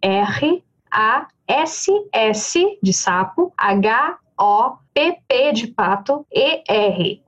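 slow letter-by-letter spelling. Shown as a demonstration. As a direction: spell each letter slowly and clearly. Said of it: "vou soletrar pra você".

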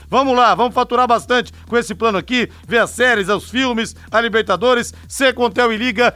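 upbeat radio ad read; infomercial. Acted. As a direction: sell the plan like a commercial. Ad read closing pitch.

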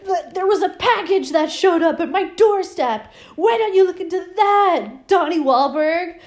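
a hammed-up slipping British accent; accusing the cop in a mock British accent. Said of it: "his accent keeps sleep-, slipping".

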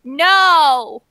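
hammed-up fake British denial; bad British accent. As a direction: do a deliberately bad British impersonation. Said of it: "a bad British impersonation".

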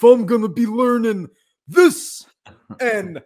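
squeaky excited build; excited squeal. Pretend. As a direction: voice jumps way up. Mimicking signing excitedly.

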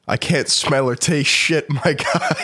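laughing through the words, slowly. Real, not acted. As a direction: chuckle while complaining. Laughing about losing taste.

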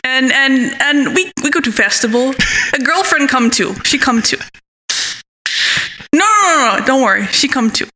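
halting, lightly faked Swedish accent; mock Swedish accent. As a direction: badly imitate a Swedish friend's broken English. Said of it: "He's Swedish".

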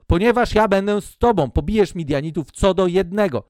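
assuring Lord. Acted.

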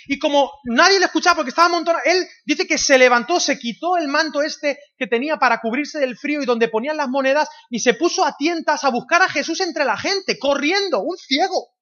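high, loud preacher's emphasis; full-force preaching. Real, not acted. Preacher telling the church about the blind man, full force. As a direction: drive each phrase at the crowd.

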